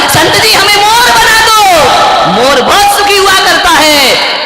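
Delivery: pleading parrot. A narrator's reading. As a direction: beg the saint eagerly. Parrot begs saint. (ऊँची आवाज़ में विनती)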